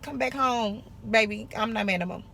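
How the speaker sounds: soft, coaxing plea to an ex; sweet-talking an ex into coming back home. Pretend. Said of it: "like when you break up with a dude".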